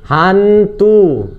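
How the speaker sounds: teasing the idea of chasing ghosts, mock spooky. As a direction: say Hantu like a playful spook.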